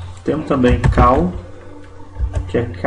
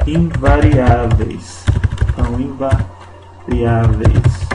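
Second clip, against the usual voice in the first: slow teacher drill; much slower than usual. Shown as a demonstration. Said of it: "teacher drills the rule word".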